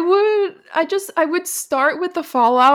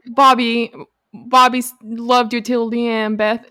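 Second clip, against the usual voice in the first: mock Southern accent. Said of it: "Why am I giving her a southern accent?".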